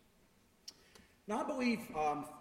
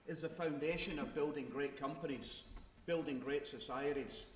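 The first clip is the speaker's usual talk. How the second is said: speaking in a Glasgow accent; broad Glaswegian speech. Real, not acted. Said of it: "Glaswegian accent".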